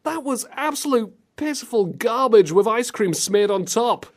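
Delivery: high, exasperated rant; comic outrage. Real, not acted. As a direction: rail against it in disbelief. Outraged at bad voice acting.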